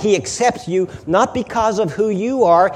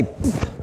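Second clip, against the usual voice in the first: dismissive pfft; 4 dB quieter than usual. Acted. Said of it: "he doesn't throw up his holy hands in disgust".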